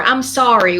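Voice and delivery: ordinary talk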